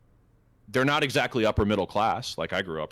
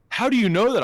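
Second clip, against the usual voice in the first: put-on squeaky high, loud kid voice; amazed little kid; 7 dB louder than usual. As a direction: play the three-year-old, wide-eyed and astonished.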